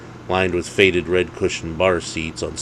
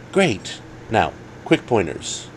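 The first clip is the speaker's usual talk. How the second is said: higher, brisk coach voice; friend's voice; 4 semitones higher, slower than usual. Acted. Alex starting his dating pointers, brisk higher voice. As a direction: snap into coaching mode.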